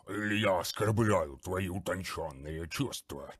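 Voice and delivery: a bloated monster sneering; gurgling monster voice. Acted. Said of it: "пробулькал омерзительный голос". (булькающая издёвка)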